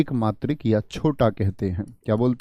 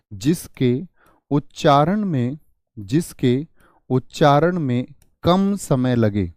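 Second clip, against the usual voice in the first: dictation. Shown as a demonstration. Dictating definition for students to write.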